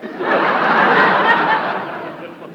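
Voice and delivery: a hint of a fluttery, giddy society lady; scatterbrained lady. Billy gushes to Eddie, lightly voiced giddy lady. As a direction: play it dizzy and delighted. Billie Burke's scatterbrained persona.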